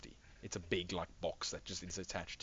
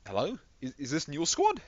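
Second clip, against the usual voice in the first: higher, louder, urgent questioning; officer on radio; 7 semitones higher, 9 dB louder than usual. Acted. Officer checking who is calling, raised radio voice. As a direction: call out uncertainly over the comms. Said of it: "he's like a, an officer or something".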